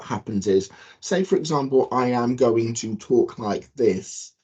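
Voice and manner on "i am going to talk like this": slow, overly careful mouthing; over-articulated demo speech; exaggerated lip pattern. Shown as a demonstration. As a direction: spell out every word with the lips. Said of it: "I'm really over-exaggerating my lip pattern".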